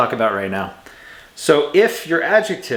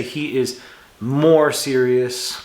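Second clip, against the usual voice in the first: slow, with more drawn out and leaned on; stress on more; much slower than usual. Shown as a demonstration. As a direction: lean slowly into the word more. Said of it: "I would have to say".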